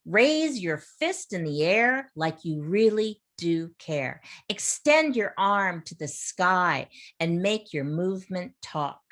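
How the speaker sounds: measured, rhythmic recitation; poem reading. Acted. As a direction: read the poem out to the class with lift. Teacher reads a poem aloud.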